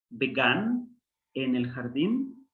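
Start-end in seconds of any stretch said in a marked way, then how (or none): 0.1-1.0 "Began" said slowly, each syllable clear; slow Hebrew word. Shown as a demonstration. Teacher reading Hebrew "Began" slowly to the class.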